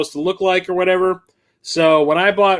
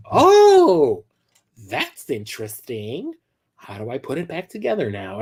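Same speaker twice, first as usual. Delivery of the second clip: clueless clerk; slower than usual. Retold or imitated. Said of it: "she's like".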